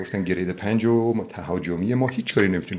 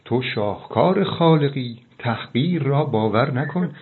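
slow, higher, inspiring; slow uplifting; 4 semitones higher, slower than usual. Acted. Host slowly inspires the listener with praise.

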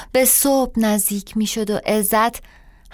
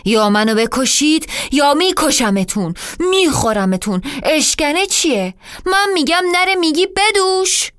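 grumbling threat. Acted. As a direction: spit out the threats. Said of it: "قرولند کنان گفت". (تهدید با غرغر و خشم)

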